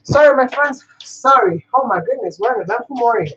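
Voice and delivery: out of breath from the stairs; panting a little after running downstairs. Real, not acted. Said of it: "Let me just catch my breath".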